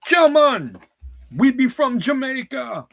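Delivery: high, loud mock Jamaican accent; Rasta accent. Shown as a demonstration.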